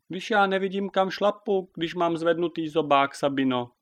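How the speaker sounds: high, plaintive whine; wailing complaint. A narrator's reading. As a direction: lament to the commander. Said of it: "lkala Běta". (naříkavě, lkavým hlasem)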